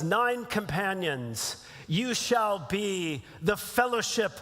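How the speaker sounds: slow, stately elf-lord pronouncement; measured, weighty proclamation; Elrond impression. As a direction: proclaim it slowly, as a solemn lord. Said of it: "Elrond says".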